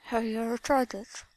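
slow, breathy seductive whisper. Acted. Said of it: "Slowly and seductively".

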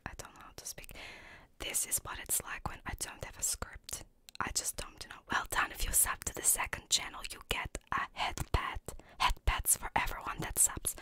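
unvoiced stage whisper to viewers; hushed, rambling whispered intro. Real, not acted. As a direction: whisper it all, with no voice. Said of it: "Why was I whispering?".

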